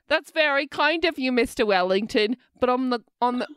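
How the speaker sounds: bad British accent. Waitress politely refuses her client, British accent falling apart. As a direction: attempt British politeness and stumble over it. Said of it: "sorry, my fucking British accent".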